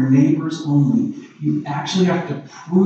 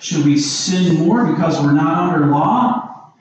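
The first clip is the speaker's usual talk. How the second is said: voicing the objector; 4 semitones higher than usual. Preacher voicing a skeptic's challenge to Paul, rising and pressing. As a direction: push the doubter's questions up and on. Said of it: "Romans six fifteen says, so what are you saying?".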